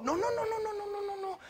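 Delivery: retahíla de noes aguda y suave; negativa cantarina. Acted. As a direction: niega en voz alta de tono y baja de volumen. Negativa repetida, actuada. (noes agudos encadenados)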